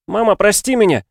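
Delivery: put-on high, loud pleading child's voice; a boy blurting out guilt; distraught boy. Oliver begging his mother's forgiveness, high and upset.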